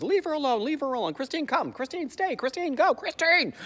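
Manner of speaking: high-pitched, urgent commands; mock frantic scolding, rising in volume; scolding a dog. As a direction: order her about like a misbehaving dog. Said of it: "like she's a bad dog".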